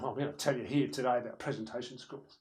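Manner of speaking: mildly grumpy presenter; a touch of sullen reluctance. Shown as a demonstration. Presenter who looks a bit angry, mildly grumpy. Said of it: "grumpy about it".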